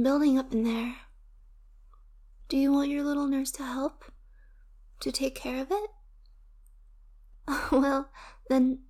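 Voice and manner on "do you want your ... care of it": breathy intimate whisper. Acted. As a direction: lean in and whisper it. Intimate question to partner.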